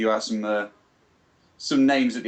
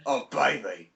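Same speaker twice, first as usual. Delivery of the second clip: lightly hammed-up sexy groan; mock lustful moan; slower than usual. Podcaster joins the joke about his groan, mock moan. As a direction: play along with the pretend moaning.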